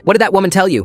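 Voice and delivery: high-pitched, sharp demand; indignant grandmother interrogating. A narrator's reading. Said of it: "Grandma Fiona demanded".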